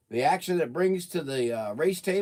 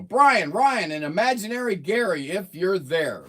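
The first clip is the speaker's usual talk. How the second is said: radio announcer voice; 4 semitones higher, 8 dB louder than usual. Shown as a demonstration. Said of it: "my streamline radio voice".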